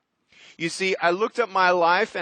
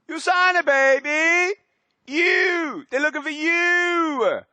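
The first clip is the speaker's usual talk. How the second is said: high excited shout; 10 semitones higher, slower than usual. Real, not acted. Speaker to USANA audience, high excited shout. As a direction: pump up the crowd.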